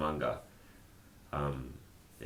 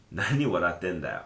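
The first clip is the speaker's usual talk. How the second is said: rough casual. Shown as a demonstration. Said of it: "when you just say it like this".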